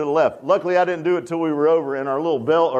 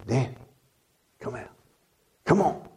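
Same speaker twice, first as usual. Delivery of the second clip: soft, hushed "Danny, come out"; quiet, calling voice of God; God's call; 4 semitones lower, 6 dB quieter than usual. Retold or imitated. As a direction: call him gently like a voice from above. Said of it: "He said".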